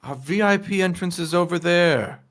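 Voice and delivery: a touch of a discreet gatekeeper; mildly put-on doorman voice, directing a guest; lightly voiced officious doorman. Game master voices doorman.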